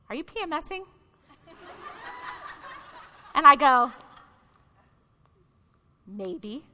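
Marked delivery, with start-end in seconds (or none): 0.1-0.8 softly imitated friend asking delicately; tentative question. 6.1-6.6 very soft, low "maybe"; sheepish admission. Retold or imitated. Sheepish admission after long pause.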